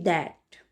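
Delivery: "that" starting with a voiced द. Shown as a demonstration. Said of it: "इन सब में से द का sound".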